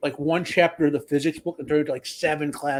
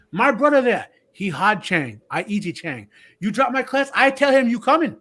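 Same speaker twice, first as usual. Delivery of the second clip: put-on high, loud heavy Asian accent, lecturing; mock professor threatening students, heavy Asian accent; Asian accent impression; 6 semitones higher, 4 dB louder than usual. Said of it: "I'm doing his accent".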